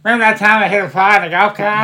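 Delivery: playful Boston dropped r's; Boston accent. Pretend. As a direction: reminisce in a hammed-up Boston accent. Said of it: "it's a Boston accent".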